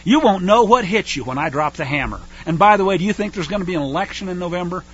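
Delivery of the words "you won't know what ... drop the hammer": louder, gloating threat; menacing enemy. Acted. Preacher voices the enemy threatening the nation, loud taunt. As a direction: taunt them like an invading warlord. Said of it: "The enemy basically is saying".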